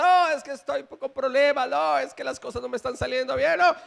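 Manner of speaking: lightly whining excuse-maker; mock complaining. Preacher mimicking a believer who stays away, mock complaint.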